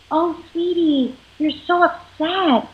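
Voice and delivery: slow, tender reassurance; soothing parent. Shown as a demonstration. Parent soothes upset child, slow and tender. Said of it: "just like your partner did".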